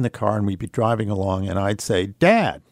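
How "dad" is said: high, bright and cheerful call; bright coaxing call; brightest voice. Retold or imitated. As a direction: sound as sunny as you can for him. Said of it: "in my brightest voice".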